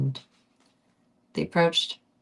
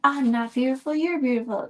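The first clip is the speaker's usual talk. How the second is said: much higher, louder teasing tone; playful high voice; 8 semitones higher, 4 dB louder than usual. Pretend. Reader flattering her listeners, high playful voice. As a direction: tease them up high.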